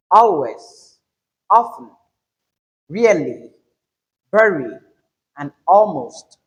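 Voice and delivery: always, often, really, very, almost, each strong on the first syllable; first-syllable stress. Shown as a demonstration. Teacher listing adverbs, first syllable stressed. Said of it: "the stress pattern on the first syllables".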